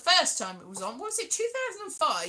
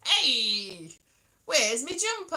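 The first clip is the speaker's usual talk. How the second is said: 1930s Cockney; 3 dB louder, slower than usual. Acted. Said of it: "nineteen thirties with the whole".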